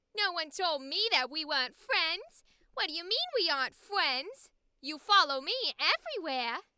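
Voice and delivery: nasally character voice. Doing the character voice they announced, greeting their bestie, nasal voice. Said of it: "It's nasally and it talks like this".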